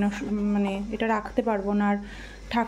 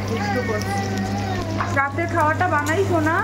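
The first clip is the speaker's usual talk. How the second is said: sing-song scolding; 7 semitones higher than usual. Real, not acted. Mother warning her toddler in the kitchen, high singsong. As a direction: warn the little one off, bright and high.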